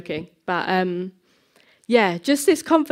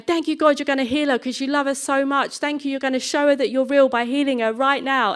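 higher-pitched, assured praying aloud; confident prayer out loud; 4 semitones higher than usual. Retold or imitated. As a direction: act out a boldly confident prayer. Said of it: "out loud I'm saying".

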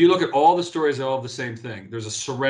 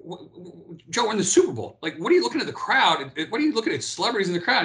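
incredulous teammate; 5 semitones higher than usual. Retold or imitated. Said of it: "the guy's like".

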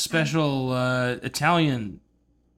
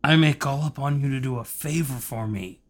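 Godfather-style mob boss impression; lightly voiced mafia don; Marlon Brando. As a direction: ask it like a movie godfather. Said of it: "Marlon Brando".

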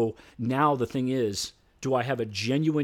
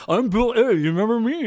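eager self-introduction; 10 semitones higher, 7 dB louder than usual. Retold or imitated. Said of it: "And so".

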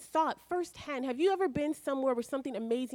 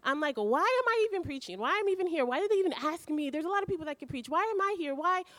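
higher, pleading cries of why at Jesus; retold angry pleading; 5 semitones higher than usual. Preacher retelling his angry prayer to Jesus, higher and frustrated. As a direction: raise the pitch and press him, frustrated. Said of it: "And then I got angry and I'm like".

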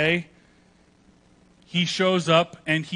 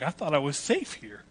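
mock-worried churchgoer, voice jumping up; mock alarm; 4 dB quieter than usual. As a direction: play a rattled churchgoer. Imagined alarmed churchgoer's reaction.

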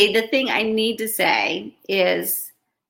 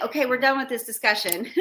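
brushing it off; 3 semitones higher, much faster than usual. Retold or imitated. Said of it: "as like".

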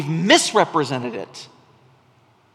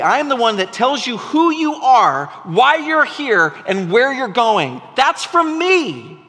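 voicing God; 4 semitones higher than usual. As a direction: preach God's promise as a father. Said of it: "God says".

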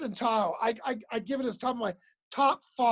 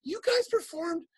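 awed question, slowing and rising at the end; wide-eyed comic; 3 semitones higher, 3 dB quieter than usual. Retold or imitated. Young comic asks mentor about live crowds, wide-eyed. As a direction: marvel like a green young comic. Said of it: "wide-eyed comic going".

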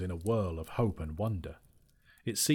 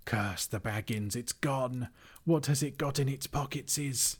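creature voice climbing higher; Gollum voice; 5 semitones higher than usual. Acted. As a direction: whine it like a frantic creature.

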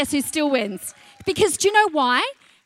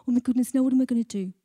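panicked parent. Retold or imitated. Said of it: "parents go like".

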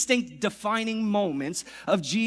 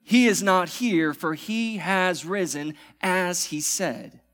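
bold proclamation; slower than usual. Acted. Pastor declaring it again after calling for amen, bold. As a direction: proclaim it with full force. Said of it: "Can someone say amen this morning".

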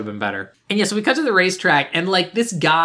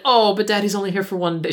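lightly hammed-up pleading kid, pitched higher; slightly caricatured daughter, higher pitch; exaggerated daughter voice; 4 semitones higher than usual. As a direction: mildly overdo a child pleading about Daddy. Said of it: "She doesn't talk that badly, but it's like that".

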